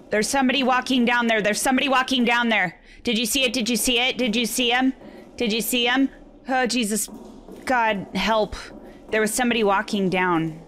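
fast, panicked breathless gasping; panicking, rushing the words out; hyperventilating. Real, not acted. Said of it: "I'm panicking".

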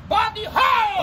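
high, loud playful yell; shout. Pretend. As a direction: yell it out at a passer-by.

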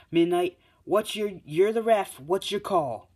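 high, loud demand; calling on the referee. Acted. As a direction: call out urgently for a ruling. Mike calls on the referee.

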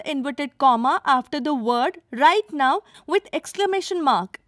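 eager student answering at full volume; loud answer. Acted. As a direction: call the answer out to the whole class. Pupil answers aloud in class.

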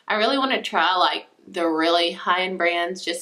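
talking past fingers; finger on lips. Real, not acted. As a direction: hand touching mouth. Seen 1: Fingers rest on lips while speaking, lowered by 2.3 s.

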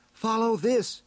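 high-pitched heroine's command; high, insistent character voice; urging heroine. A narrator's reading. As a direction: urge a beast on in a high voice. Heroine urges the creature onward.

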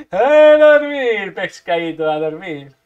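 gloating goodnight; mock lullaby. Real, not acted. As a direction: drawl it like tucking them in. Finishing enemy off.

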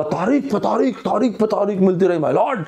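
a hint of Sunny Deol's courtroom outburst; mild mock courtroom protest; filmy dialogue, lightly hammed; Sunny Paaji dialogue. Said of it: "तो सनी पाजी ने बोला".

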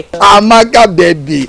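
loud, high-pitched call of a name; exuberant calling. Acted. Chief calling out to his lover Amaka, exuberant. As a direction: sing out to a lover with gusto.

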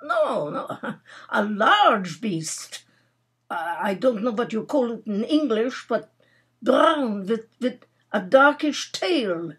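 put-on light Russian accent, halting for words; Russian youth groping for English, lightly accented. Russian youth describing his catch to Nora, Russian accent. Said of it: "Russian youth whom she had brought down".

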